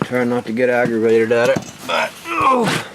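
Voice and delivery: strained groan while working; effort grunt. Real, not acted. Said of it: "All the grunting and noises".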